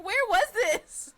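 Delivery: loud, high, drawn-out exclamation; slow, incredulous outburst through laughter; laughing disbelief. Acted. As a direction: cry out in amused bafflement. Laughing exclamation about the odd accent.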